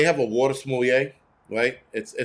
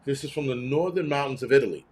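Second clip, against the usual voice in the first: mock water connoisseur. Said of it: "I can't taste the water and go".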